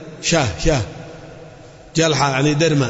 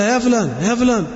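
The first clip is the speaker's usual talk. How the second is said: mother calling son; 6 semitones higher than usual. Retold or imitated. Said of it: "أمه تقول له".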